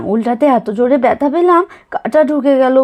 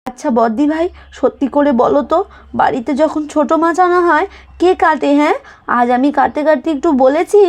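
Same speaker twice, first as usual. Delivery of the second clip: put-on lightly higher, aggrieved then coaxing young wife; a touch of urging her to get up; pleading daughter-in-law; 4 semitones higher than usual. Daughter-in-law coaxing mother-in-law to stop cutting fish, lightly pleading.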